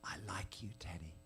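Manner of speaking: hushed, half-whispered and shy; understated, intimate confession; soft whisper. A narrator's reading. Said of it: "he whispers".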